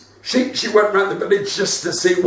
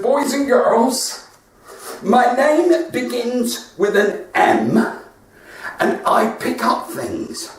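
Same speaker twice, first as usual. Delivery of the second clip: slow teacher voice; 4 semitones higher, slower than usual. Retold or imitated. Teacher voice to class.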